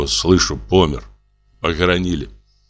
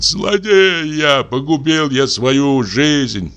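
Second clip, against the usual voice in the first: high, slow, anguished wail of remorse; slow high despairing lament; weeping lament; 6 semitones higher, much slower than usual. A narrator's reading. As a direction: cry out your ruined life, head in hands. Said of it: "держится за голову и плачет".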